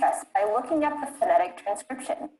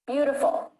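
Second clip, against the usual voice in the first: "Beautiful" with a strong first syllable; overpronounced stress; 3 semitones higher than usual. Shown as a demonstration. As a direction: model "Beautiful" for repeating, opening syllable clearly stressed. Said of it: "try to overpronounce the stress".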